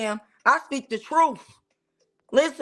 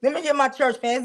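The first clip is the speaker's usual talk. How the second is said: church lady fanning. Pretend. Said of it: "it's getting hot in here".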